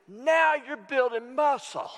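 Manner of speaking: high, slow trainer voice; trainer's pronouncement. Retold or imitated. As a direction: stretch it out like a coach mid-rep. Trainer's words, acted high and slow.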